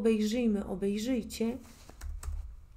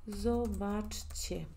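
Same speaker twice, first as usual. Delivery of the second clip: zobaczcie very slow, split into syllables; slow demonstration; 5 dB quieter, much slower than usual. Shown as a demonstration. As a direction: sound out zobaczcie piece by piece for learners. (zobaczcie muy lento, separando las sílabas)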